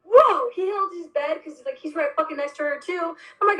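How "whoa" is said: mock startled whoa. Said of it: "he went like".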